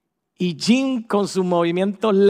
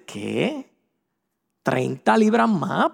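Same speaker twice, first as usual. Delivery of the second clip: shocked what; much slower than usual. Pretend. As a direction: caught off guard by the diagnosis. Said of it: "tú miras para atrás y dices".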